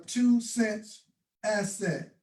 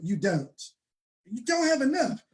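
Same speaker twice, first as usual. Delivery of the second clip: put-on Tony's South African accent. Repeating a mentor's line to the crowd in his South African accent. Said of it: "Try to say it in Tony's accent".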